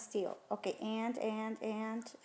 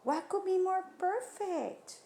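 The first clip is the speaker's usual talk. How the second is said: questioning rise; 8 semitones higher, slower than usual. Shown as a demonstration. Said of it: "Change the period to a question mark".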